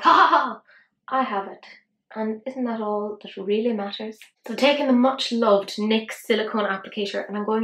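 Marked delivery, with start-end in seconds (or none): 0.0-1.6 mock smug cackle, high and loud; a playful gloat over owning it; gloating laugh. Owner gloating over the rare shimmer, mock smug laugh. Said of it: "happy because I'm like".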